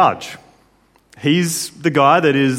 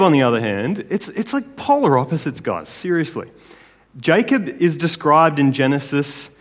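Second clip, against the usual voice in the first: ordinary talk, nothing marked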